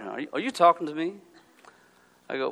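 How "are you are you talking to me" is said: put-on New York accent. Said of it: "Like New York".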